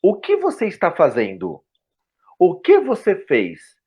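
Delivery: every word of "O que você fez" fully pronounced; careful schoolbook Portuguese, word by word; textbook enunciation. Shown as a demonstration. Guest shows how school teaches Portuguese, textbook enunciation. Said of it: "Quando nós aprendemos português na escola".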